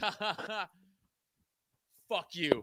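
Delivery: whispered, breathy, hushed, unhinged maniacal cackle. Retelling the reaction to someone who forgot things, retelling a maniacal laugh. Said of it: "I just laughed like maniacally".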